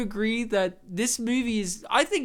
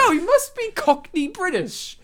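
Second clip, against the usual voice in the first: higher-pitched emphatic quote of himself; retold emphatic realisation; 11 semitones higher, 4 dB louder than usual. Telling co-host his verdict on the accent, emphatic. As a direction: retell your sudden verdict, pitched up high. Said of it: "And I said".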